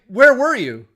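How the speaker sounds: retold demand, high and loud; mock alarmed question. Mike questions the injured woman, mock alarm. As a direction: imitate a friend's loud disbelief.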